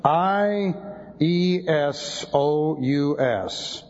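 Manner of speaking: "I E S O U S" spelled letter by letter, very slow; spelling out letters. Shown as a demonstration. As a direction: dictate "I E S O U S" letter by letter. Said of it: "No J there".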